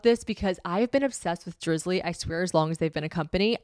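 upbeat, emphatic host-read ad; podcast ad read. Acted. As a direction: sell it like a delighted fan.

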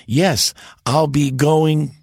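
slow, with the G of "going" hanging late; delayed hard G. Acted. Son in the sketch answering with a delayed hard G. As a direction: stretch "going", hold back its hard G. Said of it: "the G was always delayed".

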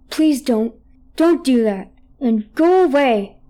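a pleading, rising mock voice, lightly done; funny voice. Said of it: "he would say things in a funny voice".

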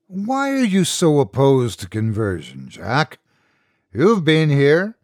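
a hint of a patient, probing old god; ancient creature. The master, a creature, speaks.

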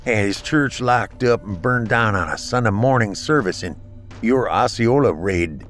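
slurred from a blow to the face; slurring. Acted. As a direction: slur the words, hurt and winded. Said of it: "slurring his words from a hit on the face".

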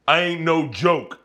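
slow, a light swaggering rap voice; a rapper's swagger. Retold or imitated. Showing friends a rapper's voice, a light slow swagger. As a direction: lip up, cocky and slow. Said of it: "big dick swagger with his lip up".

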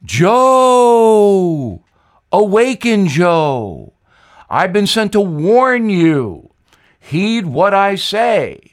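a ghostly Southern warning to Joe; Jimmy Carter. Acted. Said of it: "I'd know that accent anywhere".

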